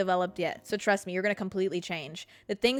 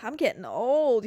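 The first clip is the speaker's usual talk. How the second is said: mock teen whine. Mocking her teen self.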